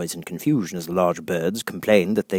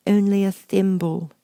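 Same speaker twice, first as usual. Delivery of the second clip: sadly; 10 semitones higher than usual. Acted. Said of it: "said Alice sadly".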